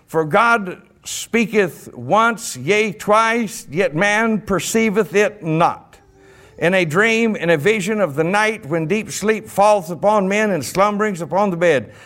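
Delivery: measured, deliberate Bible reading; scripture reading. Acted. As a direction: read the verse out with slow weight. Reads scripture aloud.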